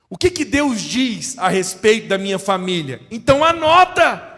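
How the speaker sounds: loud, high, ringing preaching; preaching at full force. Acted. Preacher urging the congregation to claim a new house, loud and soaring. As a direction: lift the church with rising fervour.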